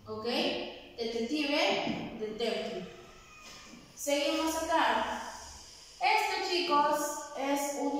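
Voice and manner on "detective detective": "detective" said slowly and clearly as an English word; slow pronunciation demo. Shown as a demonstration. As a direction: model "detective" slowly for learners. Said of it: "en la segunda parte voy a mencionarlo cuatro veces para ver la pronunciación".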